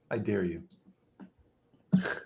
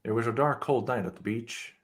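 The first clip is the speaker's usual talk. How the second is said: noir detective; 6 dB quieter than usual. Acted. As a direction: brood like a film noir narrator. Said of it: "your sexy neo-noir chest on the beach story".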